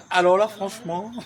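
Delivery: "Alors là, franchement" thrown out loud with "là" rising; emphatic repeat. Shown as a demonstration. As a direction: punch "là" hard and let it climb.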